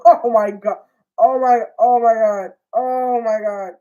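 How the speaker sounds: loud laughing oh my God; laughing disbelief. Real, not acted. Vlogger reacting to the scene, loud real laughter. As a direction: laugh it out in shock.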